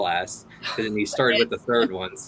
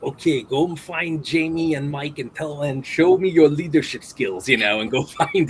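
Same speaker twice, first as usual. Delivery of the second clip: lightly voiced action star, a bit higher and louder; Arnold; 4 semitones higher, 4 dB louder than usual. Arnold sending someone to find Jamie and Mike, light impression. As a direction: give an order in a light impression. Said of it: "He went to Arnold. He goes".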